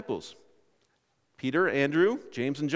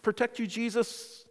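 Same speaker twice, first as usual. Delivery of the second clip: higher, eager acted boast; impetuous disciple; 6 semitones higher, 4 dB louder than usual. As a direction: jump in loudly, then press on high. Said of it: "jump right in and say".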